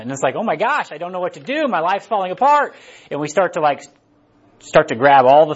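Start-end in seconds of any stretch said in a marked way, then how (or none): 0.4-2.7 higher-pitched acted panic; hammed-up overwhelmed wail; mock freak-out. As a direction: act out someone losing it, voice pitched up. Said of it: "a little proverbial freak out moment".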